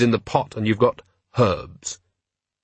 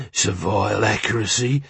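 lightly voiced gnoll; a creature's odd voice at normal pitch. A narrator's reading. Gnoll's reply in narrated story.

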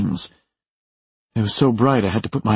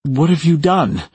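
high, somewhat raised cry; contained yell, pitched up; 8 semitones higher, 4 dB louder than usual. A narrator's reading. Someone yelling after the shots, high contained yell. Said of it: "maybe someone yells".

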